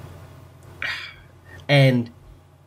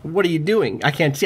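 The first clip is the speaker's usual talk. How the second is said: higher, halting attempt at a famous actor's voice; Jeff Goldblum; 3 semitones higher than usual. Game master testing a character's voice, hesitant actor impression. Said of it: "He's practicing as Jeff Goldblum".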